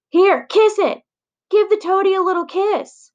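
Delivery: high, loud teasing bully voice; mocking taunt. Bully pushing the frog in a girl's face, loud mocking taunt. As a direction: shove it at her and jeer.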